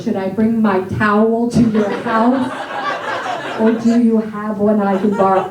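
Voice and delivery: American vowels in "towel"; plain American take of the sentence; American accent. Shown as a demonstration. Brothers practicing, sentence in American accent. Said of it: "practicing this accent every day".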